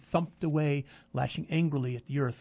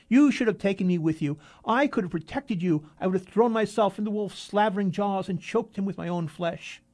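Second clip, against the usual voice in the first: put-on drunken reproach; 5 semitones higher, 6 dB louder than usual. A narrator's reading. Drunk Arkady reproaching father.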